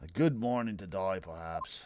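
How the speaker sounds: put-on depressed English accent. Acting out a morning greeting to Mister Holmes: depressed English accent. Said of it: "I can't do a depressed English accent".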